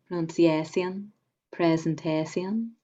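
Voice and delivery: Pronunciation and presentation with shun said as see-un; shakespearean english. Shown as a demonstration. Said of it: "So that shun".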